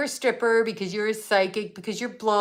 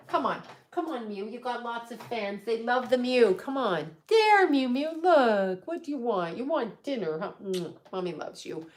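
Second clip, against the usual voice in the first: coaxing the cat; 2 semitones higher, 3 dB quieter than usual. Real, not acted. To her cat Mew, soft coaxing pet talk. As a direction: coax the cat gently, much softer.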